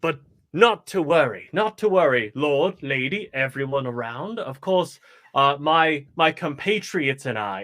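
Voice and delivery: showman addressing lord and lady; lightly theatrical, slightly lifted proclamation; dramatic entrance. Acted. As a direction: announce yourself to the nobles. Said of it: "making a dramatic entrance, and say".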